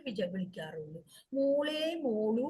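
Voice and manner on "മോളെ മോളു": slow, tender pet-name call with a rise; drawn-out loving call; fond calling. Acted. Parents recalling how they call their daughter, slow and fond. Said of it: "ഞങ്ങളുടെ മോളിനെ ... വിളിക്കാറുള്ളൂ".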